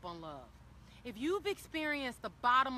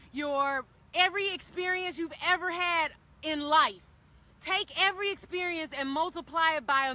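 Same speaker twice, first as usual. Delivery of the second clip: each line louder, rising to a fervent peak; building passion; 4 semitones higher, 5 dB louder than usual. Real, not acted. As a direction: build it up, stronger and stronger.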